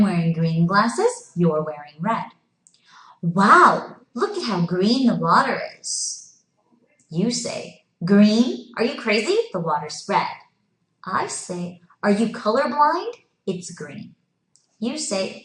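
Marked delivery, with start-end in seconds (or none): 3.2-6.4 mock amazement. Acted exclamation in pretend scenario. 8.0-10.3 mock incredulous retort. Acted argument in pretend scenario. 12.0-14.1 mock incredulous comeback. Acted argument in pretend scenario.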